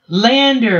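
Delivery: high, drawn-out mock call; retold scream. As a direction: imitate a scream without full volume. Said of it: "she screams out".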